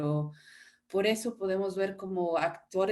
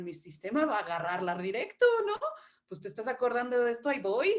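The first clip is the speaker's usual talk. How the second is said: demonstrated emotional memory, near crying; tearful on purpose; 2 semitones higher, 3 dB louder, faster than usual. Shown as a demonstration. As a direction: voice starting to cry as she calls up the memory. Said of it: "fíjate qué empieza a pasarme aquí".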